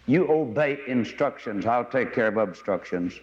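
unhurried controller calming a pilot; calm tower voice. Retold or imitated. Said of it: "very calmly said".

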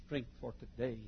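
slow, measured sermon refrain; deliberate pulpit rhythm; slow preaching cadence. Real, not acted. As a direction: lay each "for today" down like a promise.

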